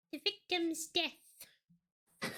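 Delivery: slow, faint, drawn-out dying queen. Acted. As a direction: breathe it out like a fading monarch. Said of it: "She just sounds like a dying queen".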